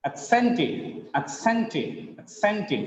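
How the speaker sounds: "accented" with the middle syllable stressed; stress on second syllable. Shown as a demonstration. Teacher demonstrating word stress, second syllable of "accented" stressed. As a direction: lean on CENT in "accented". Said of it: "The stress is on second syllable".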